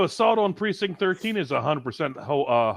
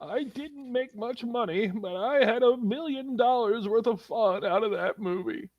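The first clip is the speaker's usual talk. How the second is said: put-on slow, higher, softer old lady; 4 semitones higher, 5 dB quieter, slower than usual. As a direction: drawl it like a sweet granny. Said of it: "Do the quote in an old lady voice".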